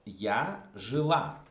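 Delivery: я жила slowed, stress on the last syllable of жила; slow model phrase. Shown as a demonstration. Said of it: "I will say".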